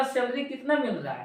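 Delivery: सैलरी said quickly as two syllables, "sel-ri"; common mispronunciation. Retold or imitated. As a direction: say सैलरी the mistaken way, squeezed to "SEL-ree". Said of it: "ये word बहुत गलती में सुना हो".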